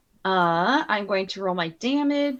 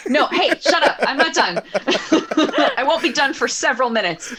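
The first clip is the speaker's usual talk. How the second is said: playful protest; 5 semitones higher, 6 dB louder than usual. Real, not acted. Player protests being interrupted.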